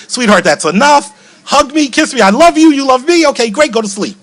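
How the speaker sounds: bright, high, rattled-off affection; sing-song hurried goodnight; brisk cheery bedtime rush. Retold or imitated. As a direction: race through the ritual. Hurried bedtime routine to daughter.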